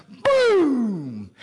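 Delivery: shouted high boom; sudden boom. A narrator's reading. Preacher to congregation, shouting the rifle shot. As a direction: hit it like a gunshot.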